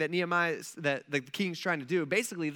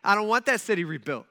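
loud, firm mock decree; royal command; 2 semitones higher, 6 dB louder than usual. King halting the city's rebuilding, loud and commanding. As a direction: lay down the order loudly. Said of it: "he issues a command saying".

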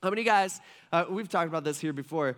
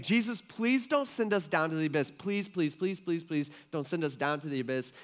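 mild mock pleading; begging. Demons asking Jesus to spare them the abyss, begging. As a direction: rattle off the pleases, lightly imitating a plea. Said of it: "begging him".

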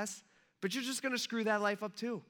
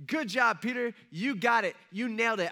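loud, higher congratulation; acted praise; 4 semitones higher, 5 dB louder than usual. Jesus praising Peter for the right answer, acted enthusiasm. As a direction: cheer the right answer, mock-proud.

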